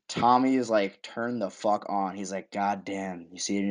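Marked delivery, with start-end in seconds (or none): 1.0-2.2 low, slow, lovestruck mutter; smitten Tommy. Retold or imitated. Imitating Tommy's smitten reaction. 2.5-3.3 low, slow, lovestruck mutter; smitten Tommy. Retold or imitated. Imitating Tommy's smitten reaction.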